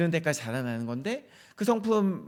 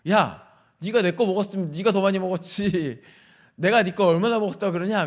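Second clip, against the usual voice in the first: louder, quick-fire retort, half-acted; retold irritated snap; 2 semitones higher, 5 dB louder than usual. Dad snapping back at his daughter over snacks, irritated and louder. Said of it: "막 다다다다 따졌어요".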